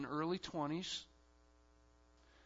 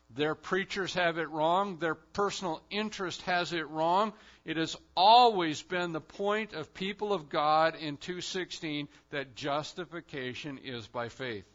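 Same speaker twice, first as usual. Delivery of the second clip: forceful Paul quote; 2 semitones higher, 7 dB louder than usual. Acted. Paul rebukes Galatian preachers.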